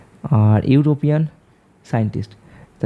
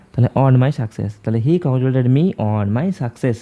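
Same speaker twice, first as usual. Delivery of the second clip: each word spaced out slowly; slow dictation; slower than usual. Shown as a demonstration. Teacher reads the corrected sentence slowly to students. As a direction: read the answer slowly for the class. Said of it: "reading the corrected sentence slowly".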